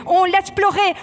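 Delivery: loud, high drill order; barked command. Real, not acted. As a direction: bark it at the recruits in the gas. Instructor barks during gas drill.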